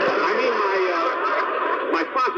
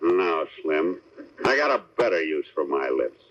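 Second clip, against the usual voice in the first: mock tough hero; 9 semitones lower than usual. The speaker plays Steve again.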